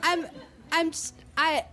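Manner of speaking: stammering pretend-drunk insistence; badly faked drunk. Josie caught faking it by friends, stammering fake drunk. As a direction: stumble and restart, still bluffing drunk. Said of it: "you're faking it quite badly".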